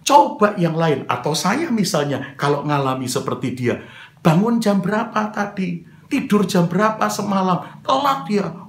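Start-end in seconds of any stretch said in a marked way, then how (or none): 4.2-8.7 higher-pitched accusing questions; mock telling-off; acted scolding. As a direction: grill someone for being late, jumping up at the end. Replays his scolding questions.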